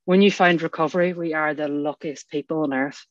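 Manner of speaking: real emotion rising, pitch lifting; moved, pausing to gather yourself; getting very emotional. Real, not acted. Speaker grateful for recovery after watching the sunrise, getting emotional. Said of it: "I'm getting very emotional".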